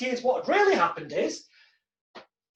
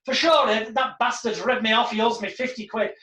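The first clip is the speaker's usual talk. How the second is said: put-on Irish accent. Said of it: "shit Irish impression".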